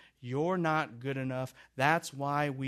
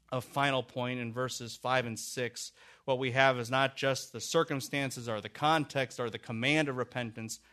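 normal talking voice

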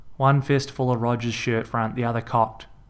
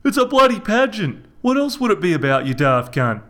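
higher, louder, fast angry comeback; angry retort; 8 semitones higher, 5 dB louder than usual. A narrator's reading. Reg snapping back at Michelle mid-argument. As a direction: fire it straight back at her.

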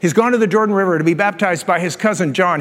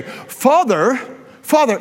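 intimate "Father"; 4 semitones higher, slower than usual. Shown as a demonstration. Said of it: "That sounds very intimate to me".

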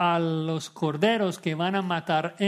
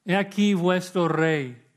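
louder, "aquí" punched then falling in scorn; mocking proclamation; 2 semitones higher, 5 dB louder than usual. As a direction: present the king with a sneer. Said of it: "Va a hacerlo burlándose de los judíos".

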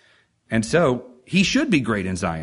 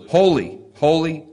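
proclaiming; 3 semitones higher, 4 dB louder than usual. Acted.

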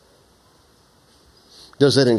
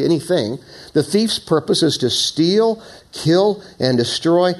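raised, deliberate Bible reading; preacher reading Jesus' words aloud; scripture reading; 2 semitones higher than usual. Acted. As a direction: proclaim the verses to the congregation.

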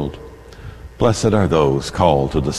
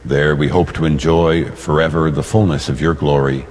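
solemn prayer; 6 semitones lower than usual. Acted. Priest prays aloud at Mass.

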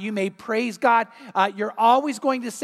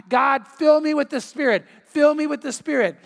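mock yell, higher pitched; retold screamed plea; 4 semitones higher, 4 dB louder than usual. Man kneeling at the invitation begs God, mildly screamed. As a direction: cry out like a desperate churchgoer, moderately loud. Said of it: "he would just start screaming out".

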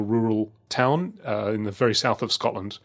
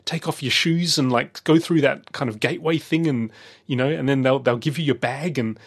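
put-on higher-pitched, eager rush of a little boy; excited child; 5 semitones higher than usual. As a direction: imitate your excited young son, thrilled by every detail. Acting out excited nine-year-old son.

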